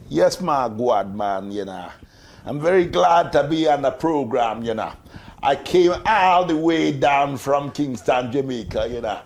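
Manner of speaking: light Jamaican accent, put on for a laugh; mock Jamaican accent. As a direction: play a cheery Jamaican visitor in a hinted Jamaican accent. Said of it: "a visitor who's just come from Jamaica".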